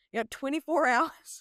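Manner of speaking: high, laughing through the words; laughing coach quote. Retold or imitated. Quoting her coach on the injury, laughing. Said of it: "He's like".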